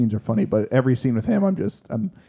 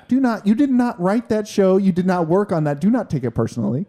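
mock stern scolding; 6 semitones higher than usual. Teasing co-host not to take it personally, mock stern.

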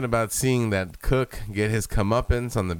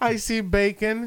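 put-on spooky child whisper; 13 semitones higher than usual. Sixth Sense line parody.

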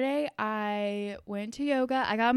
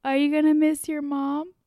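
higher, louder sing-song question; reporter to a child; 3 semitones higher, 7 dB louder than usual. Retold or imitated. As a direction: ask a kid brightly. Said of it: "she was like".

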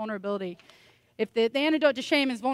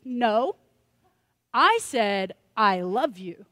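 exasperated insist; 5 dB louder, much slower than usual. Retold or imitated.

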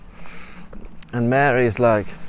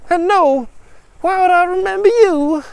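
loud, high-pitched character voice; dismissive father; 8 dB louder than usual. Acted. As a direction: throw the question back loudly and high. Father brusquely denies knowing her.

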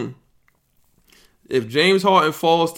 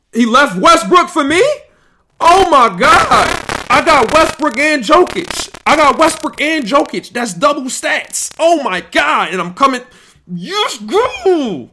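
higher and louder, thrilled; real excited; 7 semitones higher, 3 dB louder than usual. Real, not acted. Streamer thrilled a player fell to him, excited. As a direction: celebrate the steal out loud.

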